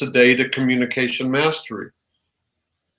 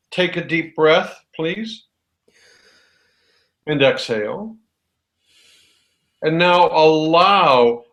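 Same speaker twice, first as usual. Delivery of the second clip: slow calm guidance; slower than usual. Shown as a demonstration. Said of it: "that's physiologically different".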